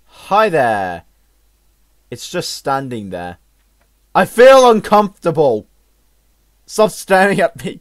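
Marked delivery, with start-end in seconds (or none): 4.1-7.8 uneasy protest. Real, not acted. Unnerved by watching game characters.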